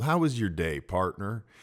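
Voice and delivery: nice, calm, low, easy, unhurried delivery. Showing how to open a conversation with someone, nice and calm. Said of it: "talking to you nice and calm".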